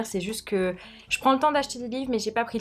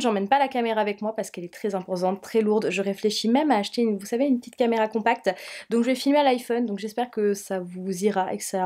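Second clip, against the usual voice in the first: sore throat voice. Real, not acted. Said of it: "j'ai une voix pourrie, mais je suis tombée malade".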